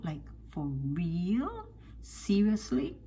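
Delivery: slow, drawn-out disbelief; incredulous. Real, not acted. Commentator doubts women who trust cheaters, slowly incredulous. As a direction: stretch it out in sheer disbelief.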